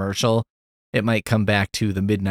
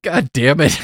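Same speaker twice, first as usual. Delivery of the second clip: upset outburst; 4 semitones higher, 5 dB louder than usual. Retold or imitated. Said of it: "he's really upset".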